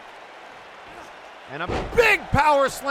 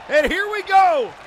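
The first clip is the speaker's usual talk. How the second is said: higher, louder, slow launch of the action; excited match call; 6 semitones higher, 5 dB louder than usual. Real, not acted. Commentator opens the first-ever match, excited call. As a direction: stretch it out and kick off the fight.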